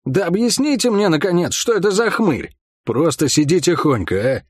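whiny, pleading question; plaintive. Acted. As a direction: plead with a complaining edge. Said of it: "спросил с жалобной ноткой".

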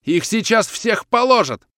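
high, loud, drawn-out alarmed shout; yelling. A narrator's reading. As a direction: yell a desperate warning, stretching the words. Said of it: "заорал Свиридов". (отчаянный протяжный крик)

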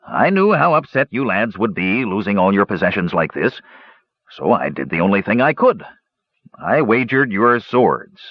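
lightly voiced, self-excusing dwarf; a hint of a sheepish dwarf; sheepish dwarf gambler. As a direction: plead your case, rising on the excuses. Dwarf confesses to the lads.

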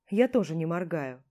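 ordinary delivery

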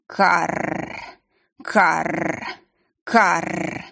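slow, rough bird croak; raven caw. A narrator's reading. Raven greeting the heroine with a caw.

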